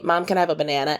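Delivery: banana said the American way, "ba-NAN-a"; plain American accent, asking mom; child's American accent. Retold or imitated. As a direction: imitate a daughter asking in American English. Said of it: "she's learning to speak our, like, vernacular".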